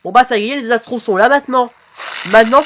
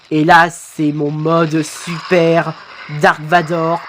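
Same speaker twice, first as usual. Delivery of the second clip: slow, monotone robot villain; Dark Vador; 3 semitones lower, slower than usual. Acted. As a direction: intone it evenly, drawn out. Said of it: "Franchement, ta voix robotique". (voix de méchant robotique, lente)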